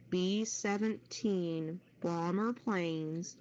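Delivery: normal talking voice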